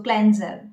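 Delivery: "cleanser" as KLEN-zer; correct pronunciation. Shown as a demonstration. Coach summing up the word, correct pronunciation. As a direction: say "cleanser" with short e and z. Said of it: "we pronounce it as cleanser".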